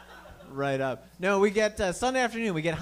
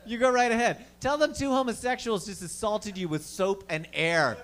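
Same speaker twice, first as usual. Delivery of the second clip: sarcastic; 6 semitones higher than usual. Retold or imitated. Taunting the driver.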